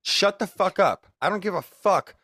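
mock angry rant. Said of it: "that was my little piece".

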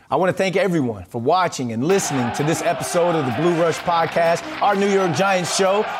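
upbeat sign-off read over music; podcast outro read. Acted. Host signing off to listeners with an upbeat outro read. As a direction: wrap up the show like an announcer.

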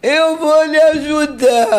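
put-on drunk man's voice. The drunk bystander offers to help her, slow drunk voice. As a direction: play the drunk stranger kindly offering help. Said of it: "Assim mesmo, Evelyn".

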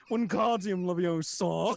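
slow, drawn-out incantation; spell casting. Pretend. Guest parodying Harry Potter with a slow spell. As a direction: intone it like a wizard.

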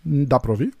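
chewing while talking; words round a bite of food; mouth full. Real, not acted. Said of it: "Tô comendo uma castanhinha".

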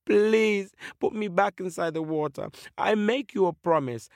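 high, imploring fish voice; pleading fish. Acted. Fish promises the eagle to behave, high pleading voice. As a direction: beg to be let back.

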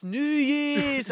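high Eshay shout of "New Year's!"; mock yell. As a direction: yell it across the street. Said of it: "they're yelling out at us".

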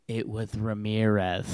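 soft mock lisp on Ramirez. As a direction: lisp "It was Ramirez" quietly. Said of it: "with, like, a giant lisp".

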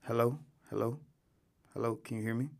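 echoey audio, like a cave; echoey mic. Real, not acted. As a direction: talk through an echoing mic. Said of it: "my shit is sounding, like, echoey".

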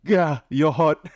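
high, slow, coy line. Retold or imitated. Reading the decoy's flirt.

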